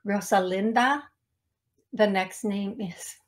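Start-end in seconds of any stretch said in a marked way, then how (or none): 0.1-1.0 "Rosalinda" in a light accent, rising at the end; channelled accent. Real, not acted. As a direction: offer "Rosalinda" tentatively in a borrowed accent. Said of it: "accent come from?".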